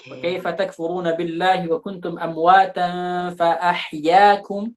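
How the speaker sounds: slow melodic tajwid recitation; Quran recitation. Shown as a demonstration. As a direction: recite it slowly, drawing out the vowels. (tilawah pelan dengan lagu)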